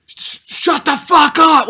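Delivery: high, loud, drawn-out scream; re-enacted furious yell. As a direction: yell it in her face, stretching the words. Re-enacting shouting in partner's face.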